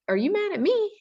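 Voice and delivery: gentle, very high-pitched careful question; retold calm question. Principal calmly asking a yelling student, high and gentle. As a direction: ask it calmly in a high, delicate voice. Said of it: "I asked him very calmly".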